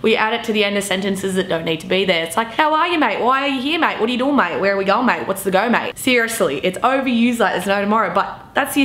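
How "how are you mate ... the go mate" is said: casual Aussie questions, each tagged with "mate"; mock-typical Australian chat, run together; Aussie mate-speak. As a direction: toss off Aussie greetings with "mate" tacked on. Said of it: "we say it in a way that it's just like".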